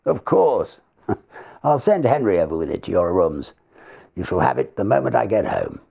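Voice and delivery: lightly voiced older counsel; obliging barrister. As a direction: agree warmly and briskly. Barrister agrees.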